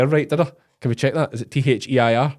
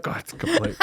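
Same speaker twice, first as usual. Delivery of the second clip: laughing exasperation; 5 dB quieter than usual. Retold or imitated. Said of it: "but I'm like".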